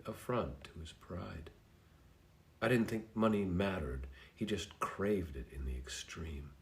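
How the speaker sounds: measured, heartfelt poem reading with pauses between lines. Acted. Reading Deb's poem aloud to her, hoarse voice still recovering, earnest poem reading. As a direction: read each line as a confession.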